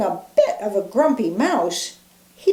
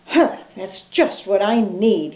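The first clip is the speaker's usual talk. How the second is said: grumbling. Acted. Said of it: "he grumbled".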